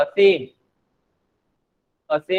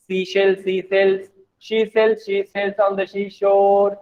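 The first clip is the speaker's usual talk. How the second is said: even, level-pitched rattle through a tongue twister; fast tongue-twister demo. Shown as a demonstration. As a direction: run the tongue twister together without breaks. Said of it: "Like this way".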